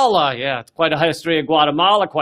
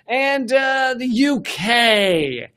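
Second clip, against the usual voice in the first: mock shout; 6 semitones higher, much slower than usual. Real, not acted. Announcing the UK.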